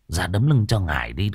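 gruff shaman. Acted. Shaman scolds the girl.

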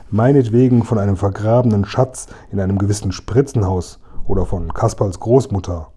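a hint of a gloating robber; lightly voiced mocking robber. Robber Hotzenplotz mocking the two friends, gloating. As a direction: sneer at them like a smug robber.

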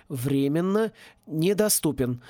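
slow recorded-message voice; answering machine. Retold or imitated. Boy mimics answering machine.

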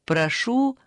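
bright, loud call like a game show host; loud showy announcement. Acted. Granny calls the prize in, loud like a host. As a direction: announce it loudly to the audience. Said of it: "улыбаясь очень громко".

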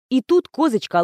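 usual speaking voice

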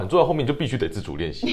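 quick words with a laugh; 边笑边说. Real, not acted. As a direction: rush it out chuckling. Laughing through a point.

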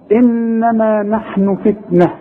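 slow measured recitation, long "nn" in إنما; deliberate tajweed demonstration of إنما نحن فتنة; Quran recitation, ghunna. Shown as a demonstration. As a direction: hold the nasal noon, then end فتنة on an h. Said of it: "شفت إن أنا غنيتها إزاي؟".

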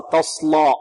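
تصلى ending in a dark "law"; wrong heavy lam. Shown as a demonstration. Teacher warns against this reading, wrong heavy lam. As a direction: let the lam of تصلى thicken with the sad. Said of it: "لا نغلظ اللام تبعا للصاد".

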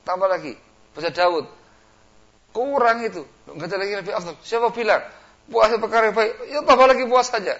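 flattering voice building high and loud; praise, then push harder; devil flattering. Pretend. Iblis flattering a fasting man, building to loud urging.

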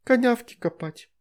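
put-on high, pouty baby talk; sulky lisping child. A narrator's reading. Veronika sulking at her father, high baby talk. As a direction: answer grumpily like a toddler. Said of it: "насупленная девочка".

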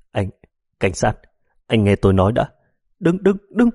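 panicked plea rising into a cry; frightened pleading. Acted. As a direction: beg in a sudden panic. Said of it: "thật sự sợ hãi, vội khua tay nói".

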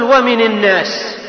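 ومن الناس said as wamini nnas, nun with kasra; ومن with the hard-to-say kasra, wamini nnas; awkward kasra form. Shown as a demonstration. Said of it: "هذا فيه صعوبة".

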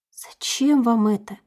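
slow, awkward question. Acted. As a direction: ask it haltingly, unsure. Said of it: "неловко спросила Юну".

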